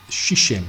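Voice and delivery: "Shishem" said as SHEE-shem, careful Hebrew try; Hebrew word Shishem. Shown as a demonstration. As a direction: sound out "Shishem" slowly like a foreign word. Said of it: "please excuse if I pronounce this incorrectly".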